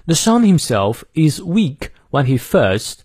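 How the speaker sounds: slow, careful British English reading; British accent, R silent in "first"; British pronunciation. Shown as a demonstration. Teacher demonstrating for learners, careful British pronunciation. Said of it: "我们来看一下英式发音".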